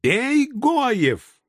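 high, strange battle shout; war cry. Acted. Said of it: "показался и второй израильтянин". (высокий боевой клич)

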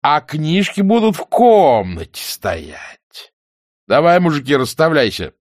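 scoff, then rally the men; indignant soldier. A narrator's reading. Soldier mocks, then orders mates. (возмущённо, по-солдатски)

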